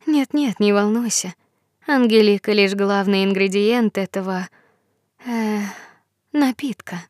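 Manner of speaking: lightly voiced reassuring fairy.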